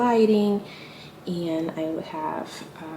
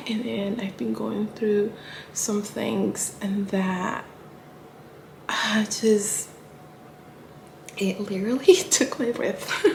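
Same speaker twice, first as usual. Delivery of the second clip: holding back tears; 2 semitones higher, slower than usual. Real, not acted. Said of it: "I'm trying not to cry".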